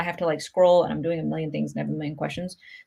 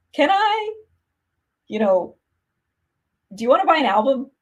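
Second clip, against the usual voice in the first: retold crying plea; 7 semitones higher, 4 dB louder than usual. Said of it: "crying girl".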